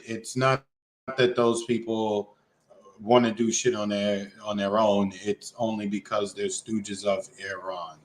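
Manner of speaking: low, quiet deadpan sarcasm; sarcastic. Real, not acted. Host dismissing claims about stooges of Iran, sarcastic. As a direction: drop it low and soft, dryly sarcastic. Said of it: "hear the sarcasm in my voice".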